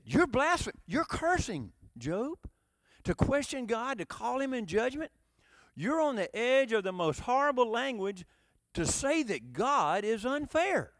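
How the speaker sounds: scandalized friend laying down a charge; accusing. Acted. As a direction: rebuke him for blasphemy. Acting out Job's friends' accusation.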